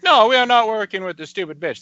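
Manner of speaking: put-on a failed British accent that drifts toward Hispanic; mock UK network exec in a bad British accent. Podcaster mocking UK executives in a bad British accent. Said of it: "In a British accent".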